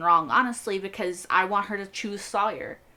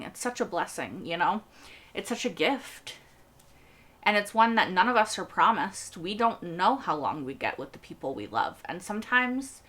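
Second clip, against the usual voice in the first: getting emotional. Real, not acted. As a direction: voice softening with real emotion, sighing. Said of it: "I don't know why I'm getting emotional about it".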